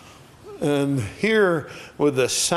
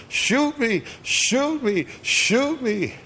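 retold scream; 10 semitones higher, slower than usual. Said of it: "he's screaming behind the wheel".

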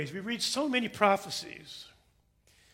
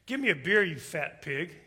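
rude duck; 3 semitones lower than usual. Acted. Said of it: "then the duck says".

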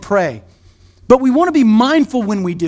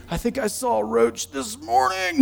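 softer, sheepish aside; mock hushed confession; 7 dB quieter than usual. Churchgoer quietly admitting a roach sighting, mock hushed. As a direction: confess it under your breath. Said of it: "You're like".

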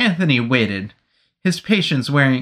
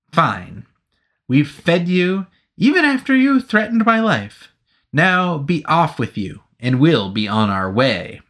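stern dismissal; 5 semitones higher than usual. Acted. Anthony dismisses the soldier.

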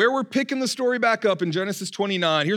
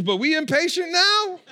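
higher, teasing with a laugh; laughing tease; 9 semitones higher than usual. Real, not acted. Pastor teasing the congregation about Jacob, laughing. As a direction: poke fun at impatient Jacob.

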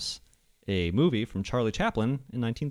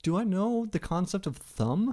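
dog voice; 7 semitones higher, 6 dB quieter than usual. Pretend. Voicing the dog's thoughts.

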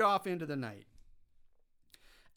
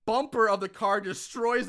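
raised, loud, building awe; amazed excitement; 5 semitones higher, 5 dB louder than usual. Real, not acted. Host marvels at the flying flaming car, thrilled. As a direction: sell it as the biggest spectacle ever.

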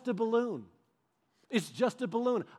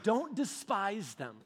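slow, softer earnest command; solemn God; 4 dB quieter, much slower than usual. Retold or imitated. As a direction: say it slowly, gently but firm.

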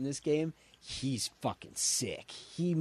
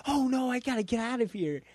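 higher-pitched, hammed-up alarm; mock panic; 9 semitones higher than usual. Goku wanting to escape Chi-Chi's yelling, mock panic. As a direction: imitate a cartoon hero in a flap.

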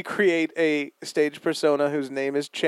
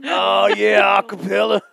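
louder, put-on mock-ecstatic listener; imagined lone listener; 3 semitones higher, 4 dB louder, slower than usual. Host mocking one guy in Kentucky listening, hammed-up delight. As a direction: exclaim like an over-keen fan, hammed-up. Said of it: "one guy in Kentucky just jerking it".

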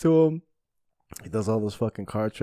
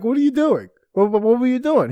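much higher and louder, baffled; mock baffled organizer; 12 semitones higher, 6 dB louder than usual. Organizer stopping the magician's act, mock outraged and high. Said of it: "the guy's like".

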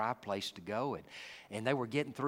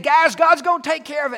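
reassuring Moses; 16 dB louder than usual. Retold or imitated. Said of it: "Moses is saying".

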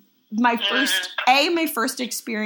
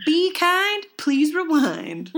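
mock rental-tape slogan; 8 semitones higher, slower than usual. Quoting the VHS tape slogan.

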